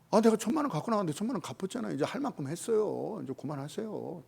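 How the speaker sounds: quick, soft, petulant complaint. Retold or imitated. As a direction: rattle off a sulky demand. Son demands to stop serving. (투정 부리듯 빠르게)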